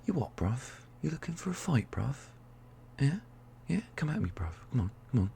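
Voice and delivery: a lightly voiced chav picking a fight; mock-hard, goading; a playful hint of a mouthy chav spoiling for a fight. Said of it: "work out all the chav in me".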